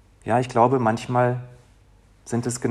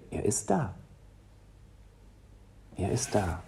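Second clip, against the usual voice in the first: hushed reassurance; 3 semitones lower, 11 dB quieter than usual. Acted.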